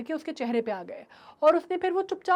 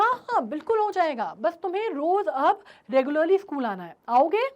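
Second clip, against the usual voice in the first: encouraging; 2 semitones higher, 5 dB louder than usual. Acted. Teacher reassures shy child.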